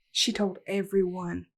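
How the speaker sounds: low, unhurried whisper; whispered emphasis. Real, not acted. Revealing the gossip at band camp, whispered.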